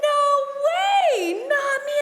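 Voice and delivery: high, loud disbelieving protest; there is no way, not me; incredulous refusal. Retold or imitated. Youth leaders invite her, she balks in shock.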